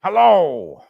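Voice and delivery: loud, put-on grumpy greeting; lightly voiced old grouch; mock growl. A narrator's reading. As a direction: fake his old gruffness. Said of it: "growled Scrooge".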